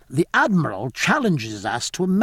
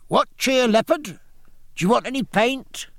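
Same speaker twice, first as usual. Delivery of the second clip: sailors calling out; 10 semitones higher than usual. Acted. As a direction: sing out cheerfully to the boy on the shore. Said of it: "they called out".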